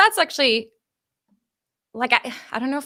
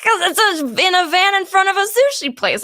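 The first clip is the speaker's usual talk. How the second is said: laughing; 9 semitones higher than usual. Real, not acted. Laughing through the story.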